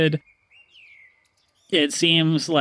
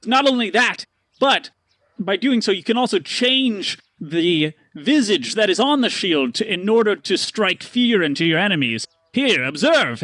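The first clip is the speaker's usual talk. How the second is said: slow, grand showman pitch; merchant pitch; 4 semitones higher than usual. Acted. Stanley selling the shield to Paxton. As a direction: build up the magic shield. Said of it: "And he goes, he goes".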